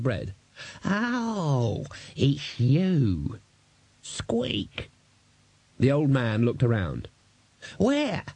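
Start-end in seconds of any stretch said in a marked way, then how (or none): 0.8-4.9 high breathless little squeak; squeaky rat voice. Acted. Death of Rats squeaks. 7.8-8.2 put-on high sudden old man's cry; startled old man. Old man looks around.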